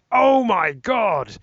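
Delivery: drawn-out, high, loud oh my God; amazed fan. Retold or imitated. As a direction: gasp it out like a thrilled fan.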